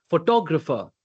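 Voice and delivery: PHOTOGRAPHER with the stress on TOG; accent the second syllable of PHOTOGRAPHER. Shown as a demonstration. Coach demonstrates accentuation to learner, syllable stress. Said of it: "you stress on certain syllables".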